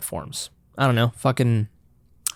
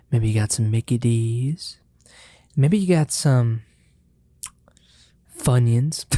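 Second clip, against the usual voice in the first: whispered snack line. Acted. Host teasing viewers about fast food, whispering. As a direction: breathe it out as an ASMR tease. ASMR style listing snacks.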